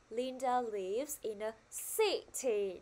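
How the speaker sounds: "city" set apart, first syllable stressed. Shown as a demonstration. Teacher modelling the sentence for the class, stressed "city". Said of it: "cô đang nhấn mạnh vào âm C".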